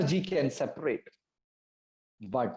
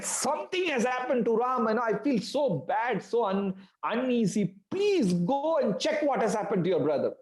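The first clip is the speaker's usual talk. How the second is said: fast, higher, frantic plea; distraught pleading; 7 semitones higher, faster than usual. A narrator's reading. Sita urging Lakshmana to find Ram, distraught. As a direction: beg him to go, losing composure. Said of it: "Mother Sita lost all her composure".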